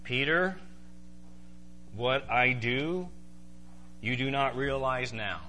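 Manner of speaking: very calm, polite reply; slow, measured and patient; calm Jesus. Acted. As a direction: answer gently, pausing between phrases. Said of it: "says very calmly".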